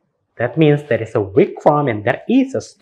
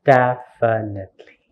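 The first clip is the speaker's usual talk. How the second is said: "Definitely" in separated syllables. Shown as a demonstration. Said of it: "how many syllables do we have?".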